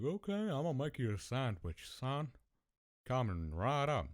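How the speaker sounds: obliging dad impression. Dad promising son a sandwich, acted eager.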